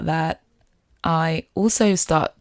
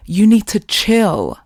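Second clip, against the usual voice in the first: inner voice; 5 semitones higher, 6 dB louder, slower than usual. Retold or imitated. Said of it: "That was the voice in my head".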